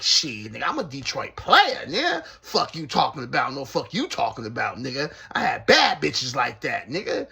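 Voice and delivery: put-on loud, boastful old man voice; proud old player. Cellmate defending his past with women, loud and boastful. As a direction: puff up and brag like an old Detroit player. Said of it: "He like".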